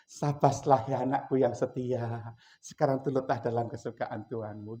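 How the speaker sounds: slow, solemn blessing; God praising servant. Acted. God welcoming his faithful servant, slow and solemn. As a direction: bestow the praise slowly, like a father. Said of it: "nanti Tuhan datang".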